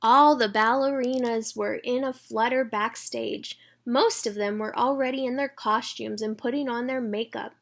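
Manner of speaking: put-on bright read-aloud for children; storybook reading. A narrator's reading.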